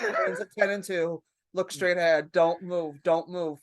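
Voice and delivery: low, controlled self-coaching; staying calm. Retold or imitated. Driver pulled over drunk, coaching themself to stay calm. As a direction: talk yourself into holding still. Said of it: "just stay calm".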